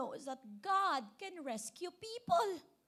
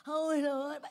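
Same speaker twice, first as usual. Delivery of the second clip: loud, forceful call; raised-voice demo of crying out; demonstrated shout; 6 dB louder than usual. Shown as a demonstration. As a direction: shout it out to rouse the congregation. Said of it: "Sigaw na ba yun?".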